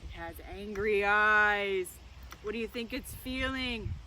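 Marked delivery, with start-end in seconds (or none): 0.0-1.9 low, slow mock growl; playful mock anger. Showing an angry pumpkin face.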